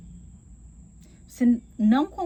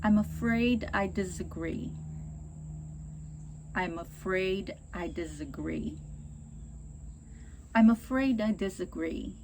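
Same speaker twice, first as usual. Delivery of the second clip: polite; 3 semitones lower than usual. Shown as a demonstration. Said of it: "É melhor?".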